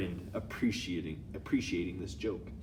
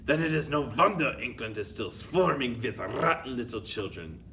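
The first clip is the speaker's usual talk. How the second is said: louder contemptuous put-on accent; thundering scorn; 4 semitones higher, 5 dB louder than usual. Grand High Witch scolding her witches, thundering. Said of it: "thundered the Grand High Witch".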